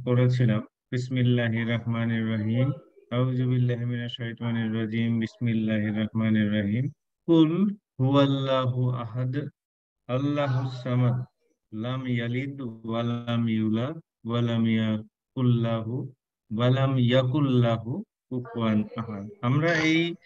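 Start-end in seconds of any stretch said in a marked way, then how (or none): 0.9-2.7 Quranic recitation. Acted. Teacher reciting the surah to students, in a recited chant. 3.1-19.3 Quranic recitation. Acted. Teacher reciting the surah to students, in a recited chant.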